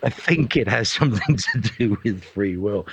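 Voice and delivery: mock-grand, measured pronouncement; grand God's answer. God answering the big question, mock-grand and deliberate. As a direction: deliver it as a weighty divine answer, lightly hammed. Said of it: "It's sort of like a great".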